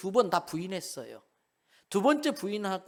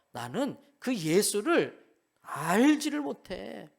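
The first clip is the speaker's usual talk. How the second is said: slow, higher and louder, a strained oath; cursing denial; 4 semitones higher, 4 dB louder, slower than usual. Retold or imitated. Peter swearing to the crowd, desperate slow denial. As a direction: swear it off in a changed voice. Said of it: "저주하여 맹세합니다".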